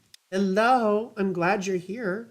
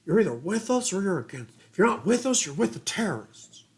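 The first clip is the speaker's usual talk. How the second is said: George W Bush impression; 2 semitones higher than usual. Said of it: "George W. Bush".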